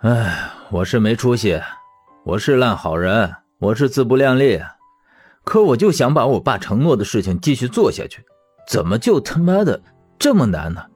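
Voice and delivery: sigh, then vent in frustration; exasperated self-reproach building to a question; self-mocking frustration. Man venting to his friend about his failed ideals, frustrated.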